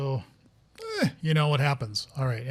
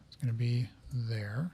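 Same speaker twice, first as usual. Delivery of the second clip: whispered aside; 5 dB quieter than usual. Real, not acted. Aside while working.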